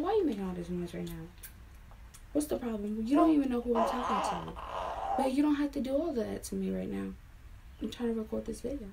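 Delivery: fast, irritated telling-off of someone nearby; real annoyance, hurried and exasperated; annoyed scolding. Real, not acted. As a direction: snap at them to stop the noise. Scolding someone making noise mid-recording.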